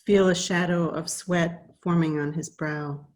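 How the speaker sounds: measured verse reading, line by line; each line starts firmly and settles at its end; poetry reading. Acted. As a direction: read the poem aloud, pausing between lines. Reads second poem aloud.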